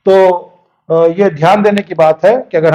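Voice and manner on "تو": ordinary talk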